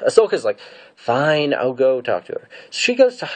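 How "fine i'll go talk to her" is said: higher, mock-exasperated giving in; huffy agreement. Ahsoka agreeing to talk to the prisoner, in a mock huff.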